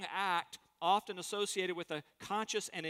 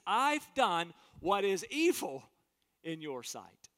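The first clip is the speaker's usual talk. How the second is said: earnest confession; 4 dB louder, slower than usual. Acted. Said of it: "He says".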